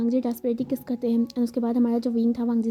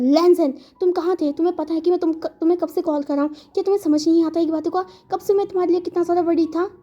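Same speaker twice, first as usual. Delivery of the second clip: worried scolding; 4 semitones higher than usual. Acted. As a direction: scold him out of relief and worry. Wing scolds missing Wangji.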